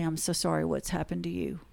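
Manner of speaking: softly spoken, retold apology; very quiet. Client privately apologizing to her lawyer, very quietly. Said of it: "she said very quietly".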